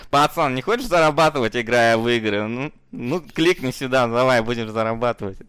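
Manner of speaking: lightly voiced street punk pitch; hint of a gopnik hustler; голос гопника. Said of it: "он озвучен голосом гопника". (голос гопника)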